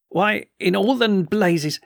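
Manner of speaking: high, slow savage outburst. A narrator's reading. Colonel demands answers from Doctor Silence, savage. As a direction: drag out the curse in frustration. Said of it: "savage with the desire to find something".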